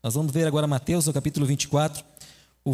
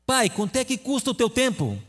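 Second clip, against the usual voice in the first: higher, lightly voiced little boy; child asking; 6 semitones higher than usual. Son asks his busy father a question, lightly childlike. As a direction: ask like a curious small child.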